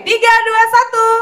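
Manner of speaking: high countdown, rising each number; excited countdown. Real, not acted. Countdown for the prize draw.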